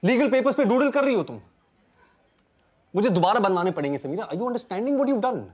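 high, loud outraged shouting; angry yelling. Acted. To Sameera after she doodles on legal papers, angry yelling. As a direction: blow up at her for ruining the papers.

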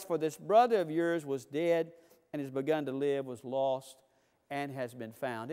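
father calming his resentful son, tender. Retold or imitated. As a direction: gently reassure your son. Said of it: "And he said to him".

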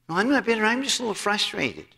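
mock denial. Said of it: "don't wanna admit they're bitter".

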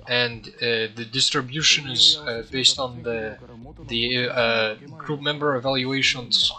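hesitant imitation of a professor's Turkish accent; attempted Turkish accent. Gamer quoting his professor on grading, attempted Turkish accent. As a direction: feel your way through a shaky attempt at a Turkish accent. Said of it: "let me see if I can do the accent".

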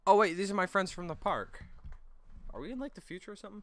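high, excited cartoon friend; squeaky sidekick voice, excited; high character voice. Friend reacting to the future, high-pitched.

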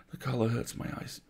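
mother hiding tears, quietly; quiet strained voice. Acted. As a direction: hide the tears in a soft line. Mother covers her tearful eyes.

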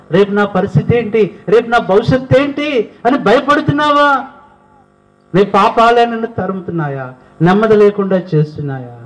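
climbing high, urgent preaching; rising preaching. Acted. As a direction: build up to a pleading peak. (పెరుగుతున్న ఉత్సాహంతో బోధన)

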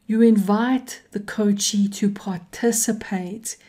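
light emphasis on "invite"; stress on invite. Shown as a demonstration. Coach teaching students, stressing "invite" a little. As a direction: lean a little on "invite" with a slight lift. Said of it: "I'm emphasizing the word invite".

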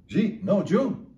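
"Jeet? No, Jew." with each phrase squashed into quick syllables; high, loud "Jeet?" for did you eat, "Jew" for did you; run-together speech. Retold or imitated. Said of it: "that's emphasizing speed of the language".

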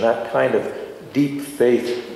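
ordinary talk

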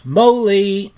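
Rat calls loudly through the house for his friend; a loud high call of his friend's name. Acted. Rat calls for Mole in the empty house, loud. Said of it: "Then he called".

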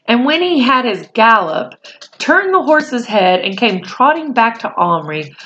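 put-on reading a chapter aloud to children; steady storyteller voice for a class; story narration. A narrator's reading. Reads the novel aloud.

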